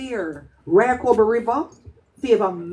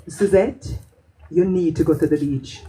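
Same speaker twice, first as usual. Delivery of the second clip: serious; 3 semitones lower than usual. Retold or imitated. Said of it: "The seriousness in her voice".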